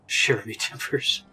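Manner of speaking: slow hammed-up pirate line; pirate talk. Player greeting the captain, mock pirate voice. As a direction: drag it out like a cartoon pirate. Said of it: "wants to talk like a pirate".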